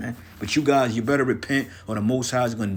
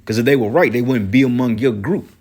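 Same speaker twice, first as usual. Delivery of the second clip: heated shout; 8 dB louder than usual. Real, not acted. Ranting at rival congregation.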